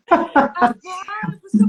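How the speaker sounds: big high laugh spilling into a slow drawn-out word; loud laughter. Real, not acted. Laughing at her own claim of Buddha-like patience.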